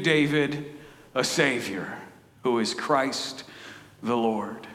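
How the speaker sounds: measured, earnest Bible reading; steady reverent reading, building as the angel speaks; scripture reading. Acted. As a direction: read it like the Word itself. Reads the scripture passage aloud.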